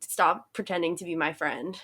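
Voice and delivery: matter-of-fact mock put-down, dropped in pitch; straight-up blunt. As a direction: imitate a frank girl rejecting someone. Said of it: "they're straight up".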